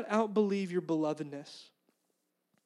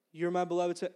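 lightly voiced, unruffled repeat; silly God reply; faster than usual. God answering the preacher's practical questions, mildly silly and unruffled. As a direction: answer evenly, ignoring the question. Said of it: "I'm saying this kind of like, you know, s-, in a silly way".

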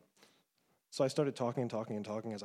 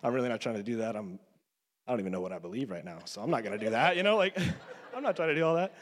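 retold refusal; 4 dB louder than usual. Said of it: "And I was like".

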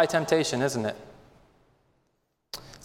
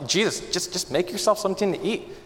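softer, coaxing Satan voice; sly tempter; 3 semitones higher, 4 dB quieter than usual. Acted. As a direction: lure him in quietly, honeyed.

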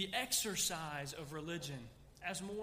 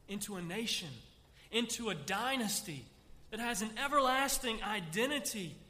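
building proclamation; 2 semitones higher, 5 dB louder than usual. Acted. Preacher voicing God's promise to David, building to a loud climax. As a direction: build each phrase bigger.

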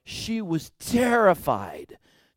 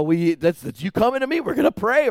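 ordinary talk

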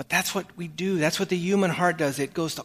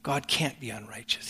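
hushed whisper; 3 semitones lower, 6 dB quieter than usual. Real, not acted. Preacher drops to hushed conviction.

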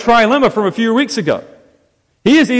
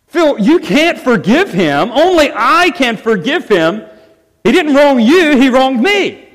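indignant protest; 4 semitones higher than usual. Acted. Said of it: "what's Ryan gonna say after he calms down".

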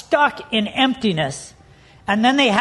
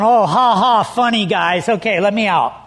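mock amusement, dropping lower at the end; sarcastic fake laugh; 3 semitones lower than usual. Handcuffed boy to his laughing buddies, sarcastic. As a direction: humour the pranksters with a dry "ha, ha". Acting out reply to pranking buddies.

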